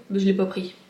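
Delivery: blocked nose after crying; stuffy, runny-nosed voice; talking through nose. Real, not acted. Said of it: "je parle du nez en plus".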